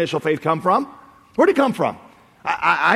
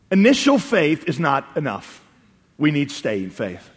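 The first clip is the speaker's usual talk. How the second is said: measured key point; 3 semitones lower, slower than usual. Real, not acted. Preacher states the lesson to congregation, slow and weighty. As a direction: lay it down slowly, sinking on "staying faith".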